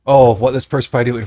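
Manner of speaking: lightly voiced Mexican accent for a joke. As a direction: slip into a loose Mexican accent. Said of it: "I did it in a Mexican accent".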